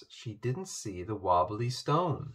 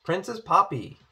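croaking; 7 semitones higher, 5 dB louder than usual. A narrator's reading. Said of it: "he croaked".

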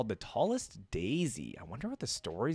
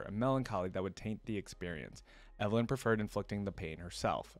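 measured storybook reading; story narration. A narrator's reading. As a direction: narrate a dark tale with care. Reads the story aloud.

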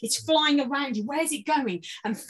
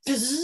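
rising bee buzz; 3 dB quieter than usual. Shown as a demonstration. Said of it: "I want the fuzz to go up".

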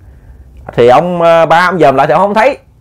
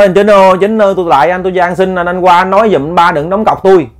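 raised, insistent acted begging; clear pleading; 4 semitones higher than usual. Ghost begs Chính to stop the staking, pleading clearly. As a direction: plead distinctly, calling out for help. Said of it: "Nói rõ ràng rành mạch vậy luôn".

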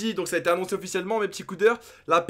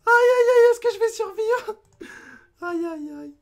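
much higher, alarmed wail; mock panic; 9 dB louder than usual. Real, not acted. Gamer fearing his character dies, high mock panic. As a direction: squeal in half-joking panic. Character nearly dying in game.

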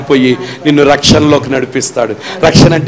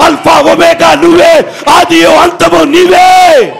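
fervent prayer preaching; 8 semitones higher than usual. Acted. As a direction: pray it out, building to a cry. Prayer building to climax.

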